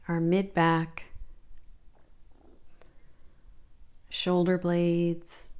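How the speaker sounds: calm, measured body-scan guidance with long pauses; unhurried meditation teacher voice; guided meditation. Real, not acted. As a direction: lead them gently through the body, leaving space between phrases.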